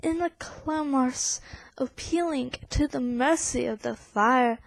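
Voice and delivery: forceful poem recital in an attempted British accent; English accent. Shown as a demonstration. Reading Poe's frantic fire bells, forceful English accent. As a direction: declaim with urgency in your best English accent. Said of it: "my best attempt of an English accent".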